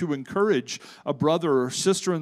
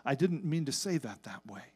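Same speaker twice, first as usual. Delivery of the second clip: quiet apology; 6 dB quieter than usual. Retold or imitated. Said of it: "go back to the person and say".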